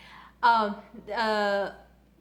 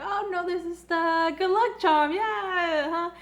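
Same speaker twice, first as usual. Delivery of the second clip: higher, flustered denial; flustered Yuri; 7 semitones higher, 3 dB louder, slower than usual. Retold or imitated. Yuri deflecting Chris's question about the rings, higher flustered voice. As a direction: play it off nervously like he's hiding something.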